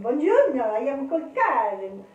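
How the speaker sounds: a playful, hammed-up Italian greeting; mock Italian accent. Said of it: "I can do a lovely Italian".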